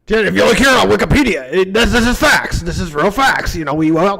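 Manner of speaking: lightly acted conspiracy host; mock-insistent fact claiming; Alex Jones. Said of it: "start doing Alex Jones stuff".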